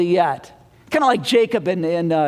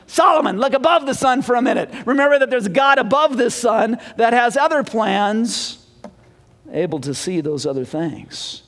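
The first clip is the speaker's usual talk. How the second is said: raised, pleading call to Solomon, then fading. Acted. Preacher calls out to Solomon to lift his eyes.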